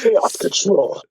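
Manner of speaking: slow, dramatic Chaos control; slow hedgehog catchphrase; Shadow catchphrase. Acted. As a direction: intone it like Shadow.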